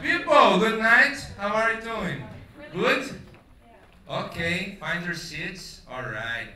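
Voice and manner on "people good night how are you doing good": host shout. Real, not acted. Host greets audience loudly.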